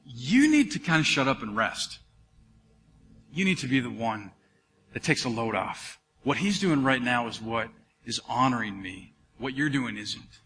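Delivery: gentle voice of God. Retold or imitated. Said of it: "God just real gently said to me".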